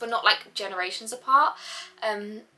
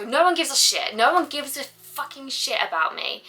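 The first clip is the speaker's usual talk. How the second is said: retold sulky complaint; 5 semitones higher than usual. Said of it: "I would always just go".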